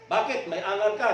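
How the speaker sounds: loud, gruff cop challenge; tough policeman. Acted. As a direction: stare him down. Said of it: "sabi ng pulis".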